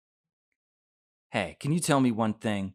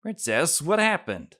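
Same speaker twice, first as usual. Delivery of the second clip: alarmed cry; 7 semitones higher than usual. Acted. Glass collapses, Bear alarmed.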